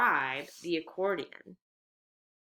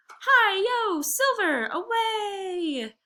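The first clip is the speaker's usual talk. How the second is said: much higher and louder, a triumphant battle cry; joyful shout; 5 dB louder, much slower than usual. A narrator's reading. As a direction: yell it out like a cowboy charging off. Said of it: "a final shout of".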